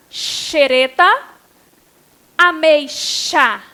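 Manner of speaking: slow "Xereta", "Ameixa", X sounded as sh. Shown as a demonstration. Teacher showing X with CH sound, "Xereta", "Ameixa" slowly sounded out. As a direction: stretch "Xereta" and "Ameixa" to show the sh. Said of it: "X com som de C H".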